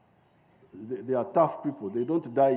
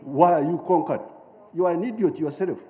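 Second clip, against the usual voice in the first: loud rebuking challenge to his own people; scolding; 3 semitones higher, 5 dB louder than usual. Real, not acted. Speaker berating Africans for being conquered, loud scolding. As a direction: scold them, voice raised.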